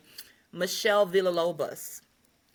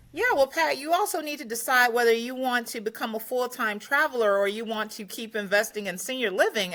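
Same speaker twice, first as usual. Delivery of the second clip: mildly sarcastic accountant; 3 semitones higher than usual. Retold or imitated. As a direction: imitate a CPA with a touch of sarcasm. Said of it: "he's very sarcastic".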